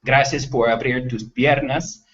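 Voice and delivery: slow, careful Spanish; Spanish line said carefully; Spanish mistake. Retold or imitated. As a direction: read the Spanish phrase slowly. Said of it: "what he actually said was".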